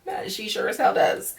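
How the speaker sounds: breathy whisper of agreement; whispered aside. Real, not acted. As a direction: whisper it like a juicy secret. Agreeing with Serena.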